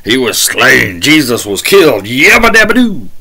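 over-the-top gleeful cheering; mock excitement. Preacher mocking the singer for cheering Jesus's death, mock excitement. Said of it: "Getting excited about killing Jesus".

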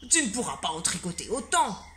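a hint of a stern schoolmaster; lightly voiced teacher. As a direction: tell her it can't be done. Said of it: "s'exclama monsieur Normand".

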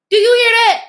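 preacher calling out the crowd; challenging shout. Real, not acted. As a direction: fire the question at the audience. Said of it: "rhetorical challenge".

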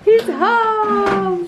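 high excited announcement. Real, not acted. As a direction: burst out happily. Dad arriving home.

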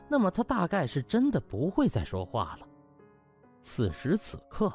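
ordinary delivery, nothing marked

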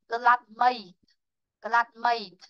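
"cơ lát mây" closed with a light T; final T sound. Shown as a demonstration. Teacher showing the final sound, "cơ lát mây" ending in a light T. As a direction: finish "mây" on a T, no vowel after. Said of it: "Âm cuối của cô là âm tơ này".

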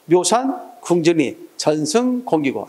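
묘산, pause, 궁전이, then 전승, pause, 공기고; two-three reading rhythm. Shown as a demonstration. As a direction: slowly split 묘산 / 궁전이 / 전승 / 공기고. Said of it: "이런 식으로 읽어주면 된다".

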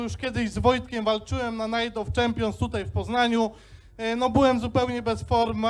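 lisp. Real, not acted. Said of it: "mogę trochę seplenić, bo mam wstawiane zęby".

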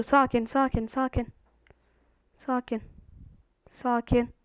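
soft self-soothing repeats; a quiet plea to stay calm; calming himself. Real, not acted. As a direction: talk yourself down quietly. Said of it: "Hiç sakin olamıyorum ama".

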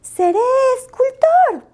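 muy agudo y fuerte, triunfal; anúncialo a los cuatro vientos; entusiasmo. Acted. Lupo decide ser escultor. (Lupo anuncia su nueva vocación, eufórico)

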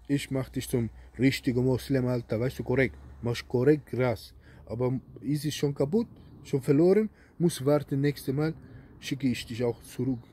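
lightly put-on broken street German accent; mock immigrant-German accent. Poses as imam in broken German. (leicht gespielter Kanakdeutsch-Akzent)

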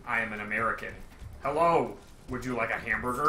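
lightly hammed-up General American; standard American accent. Shown as a demonstration. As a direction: introduce yourself in overly proper American. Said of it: "I am speaking in a standard American accent".

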